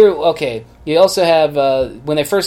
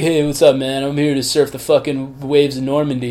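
beach bum surfer; 2 semitones lower than usual. Retold or imitated. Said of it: "Sounds like a beach bum".

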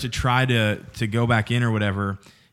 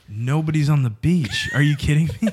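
excited disbelief; 5 semitones higher, 4 dB louder than usual. Retold or imitated. Excited friends spot empty beach.

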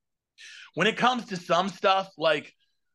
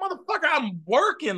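higher, exasperated mock snap; exasperated retort; 8 semitones higher than usual. Answering friends who nag about shows, exasperated snap. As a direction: fire back like you're fed up. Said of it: "I'm like".

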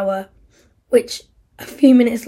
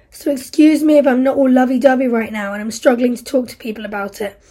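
bitter, louder anger at Isla; angry outburst; 5 dB louder than usual. Acted. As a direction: lash out at her, barely holding back. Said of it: "Yes, I'm angry".

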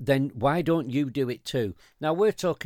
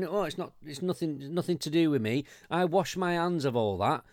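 mocking dismissive; 3 semitones higher than usual. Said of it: "here you are going".

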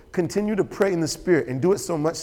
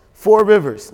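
Four punched loud and held; Four called out loud for the congregation to repeat; stress on four; 4 semitones higher, 8 dB louder, slower than usual. Shown as a demonstration. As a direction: lean hard on the word Four so they echo it. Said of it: "Now, can you say four?".

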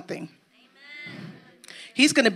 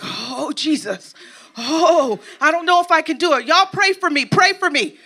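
mock panic; 3 semitones higher than usual. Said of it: "you're like".

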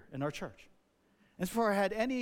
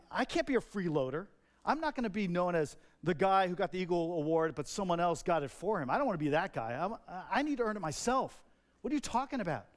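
retold anger. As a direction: push back like a stubborn scout. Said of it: "I got angry and saying".

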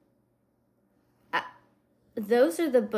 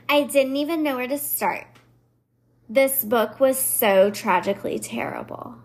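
lightly mocking Valley Girl reviewer; mildly dramatic Valley Girl reading. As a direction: play up the complaint, a little Valley Girl. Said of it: "the Valley Girl kind of is my go-to voice".

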